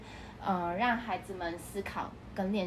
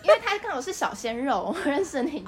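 laughing; 6 semitones higher, 5 dB louder than usual. Real, not acted. Laughing about young man.

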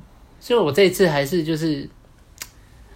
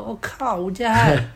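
high, loud shout of his name; calling his name loudly; 8 semitones higher, 4 dB louder than usual. Retold or imitated. Ex-girlfriend shouting his name on recognizing him, loud and high. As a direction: call out the name in surprise. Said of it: "她就很大声的叫我名字".

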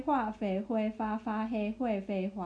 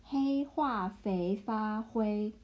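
slow model reading; slower than usual. Shown as a demonstration. Teacher slowly models the Chinese tongue twister for the learner. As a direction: say each syllable of the tongue twister slowly and evenly.

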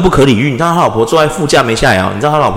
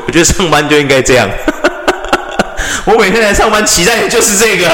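laughing while talking; 3 semitones higher than usual. Real, not acted. Laughing about enjoying angry coworkers.

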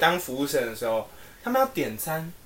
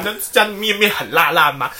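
put-on cutesy doubled-word baby talk; 3 semitones higher than usual. Shown as a demonstration. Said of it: "这家的面很辣吗".

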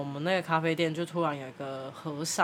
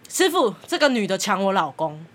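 loud aunt accusing; 4 dB louder than usual. Retold or imitated. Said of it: "有那个阿姨讲话特别大声".

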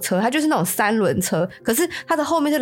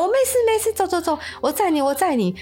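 put-on old grandpa; 8 semitones higher than usual. Old man insists on driving.

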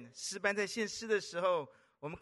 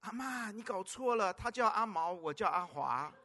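father correcting. Retold or imitated. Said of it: "这个爸爸就看着这个阿嬷说".

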